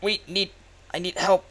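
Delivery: out of breath and urgent; panting. Acted. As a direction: gasp the words out, panting. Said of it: "It's, like, panting".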